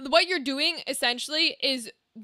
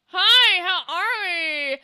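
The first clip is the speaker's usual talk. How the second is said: high, drawn-out greeting through a fixed smile; slow ventriloquist greeting with the smile held; 4 semitones higher, 4 dB louder, much slower than usual. Shown as a demonstration. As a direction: stretch it out through a stiff, toothy smile. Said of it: "do it this way, like, where you go".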